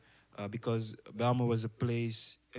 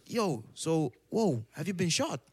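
higher, louder imitation of a gawping kid; mock shocked classmate; 6 semitones higher, 4 dB louder, slower than usual. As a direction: play the clueless classmate, amazed. Classmate's question in retold story.

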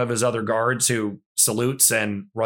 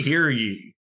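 town crier; 2 semitones higher than usual. Pretend. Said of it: "old-timey cars with the, like, megaphone".

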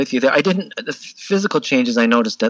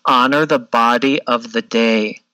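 imitating a gentle yoga teacher, lower and unhurried; gentle instructor; 4 semitones lower than usual. Yoga instructor repeating her wise words to a struggling student, gently and a bit lower. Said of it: "she just very gently s-, keeps saying".

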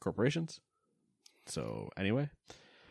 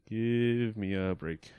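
slow, drawn-out ad tagline; mock ad jingle; much slower than usual. Repeating the mock ad slogan, slow and drawn out. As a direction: stretch the slogan out slowly.

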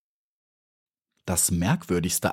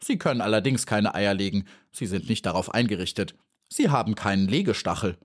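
pert; faster than usual. Acted.

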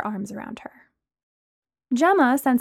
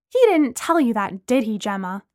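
angry. Acted. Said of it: "Lana asked angrily".

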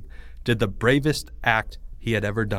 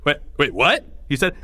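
startled question; 3 semitones higher than usual. Acted. Greg startled, drops scissors.

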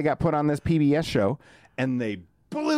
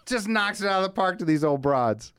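real glee, pitched way up; amused; 7 semitones higher than usual. Real, not acted. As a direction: push the payoff out through laughter. Laughing over the story's payoff.

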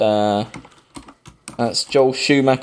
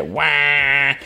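movie horn noise; 2 semitones higher than usual. Retold or imitated. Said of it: "We'll all be doing that noise".

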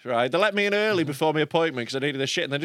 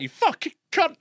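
road rage yell; 11 semitones higher than usual. Retold or imitated. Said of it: "normally I'm driving like".

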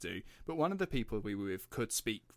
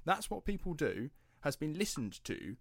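high, very slow, drawn-out milestone announcement; proud announcement; 8 semitones higher, slower than usual. Real, not acted. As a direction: stretch out each word, pitched high, celebrating. Celebrating listen milestone.

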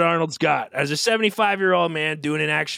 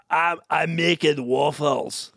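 put-on slow Arnold accent; drawn-out Austrian accent; deadpan Arnold-style line; Arnold Schwarzenegger accent; slower than usual. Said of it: "our man Arnold would have done it".

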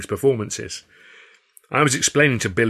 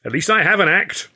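high, loud indignant retort; stung, raised-voice comeback; spitting back; 9 semitones higher, 5 dB louder than usual. A narrator's reading. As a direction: spit the comeback out high and forceful. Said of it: "Hurley spat back".

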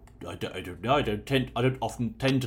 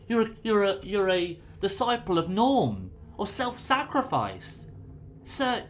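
pleading paladin; 5 semitones higher than usual. Acted. Raya pleads with the prisoner.

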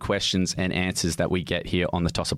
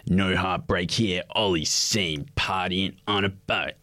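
tabloid headline; slower than usual. Retold or imitated. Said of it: "some bloody article the next day".

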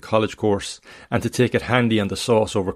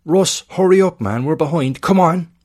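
much higher, loud sideline shout; booming coach; 8 semitones higher, 5 dB louder than usual. Acted. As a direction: yell it across the pitch, urgent. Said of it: "The coach's voice booms from the pitch side".

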